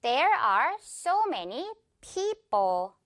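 very slow model sentence, people front-heavy; stress on PEO of people. Shown as a demonstration. Teacher models for repetition, slow front-stressed people. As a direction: spell it out slowly, leaning on the start of people. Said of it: "앞부분에 강세 줄게요".

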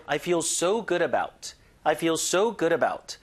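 "I feel so good about" with "so" stressed, falling after. Shown as a demonstration. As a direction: push on "so", keep "good about" light. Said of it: "요거 so에 힘주고".

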